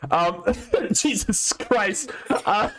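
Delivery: coughing through the words; chesty cough. Real, not acted. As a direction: talk between coughing fits. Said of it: "I'm coughing now".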